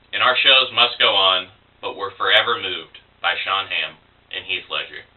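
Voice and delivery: measured poetry reading, stressed words lifted; poem recitation. Acted. Student poet reading an elegy for two lost people, poem recitation. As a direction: recite an elegy in deliberate phrases. Reads own elegy aloud.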